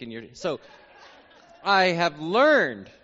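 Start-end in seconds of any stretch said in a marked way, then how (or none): 1.6-2.9 slow, loud Texan twang with stretched vowels; Texan accent. Shown as a demonstration. Preacher showing off his learned twang, drawn-out Texan accent. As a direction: draw out each word in Texan. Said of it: "to sound a little Texan".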